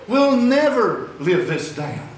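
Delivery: slow, laughing through the words. Retold or imitated. Pastor laughing after being caught on the radio, slow laughing. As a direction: chuckle it out slowly. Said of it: "He said".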